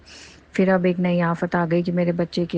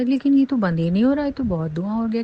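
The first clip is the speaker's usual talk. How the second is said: puzzled surprise; 5 semitones higher than usual. Retold or imitated. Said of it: "मैंने कहा".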